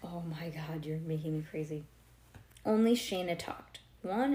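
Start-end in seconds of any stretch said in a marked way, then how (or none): 0.0-1.8 breathy exasperated whisper; whispered frustration. Real, not acted. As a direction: hiss it under your breath. Reader exasperated at restless child.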